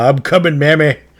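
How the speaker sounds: high, throaty, guttural growl. Voicing an unseen creature calling from the hallway: guttural yelling voice. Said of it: "a guttural voice yelling".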